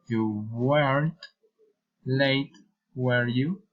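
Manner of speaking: "were you" rises at the end; statement, pause, then lift "were you"; tag-question intonation. Shown as a demonstration. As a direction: let "you" climb. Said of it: "following of reason intonation".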